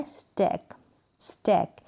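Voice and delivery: स्टैक with an "ay" vowel, as in "stake"; correct pronunciation of steak. Shown as a demonstration. Teacher models the word for beginners, correct pronunciation. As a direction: say स्टैक with the ए sound, never a long ee. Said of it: "इसको आपको पढ़ना है".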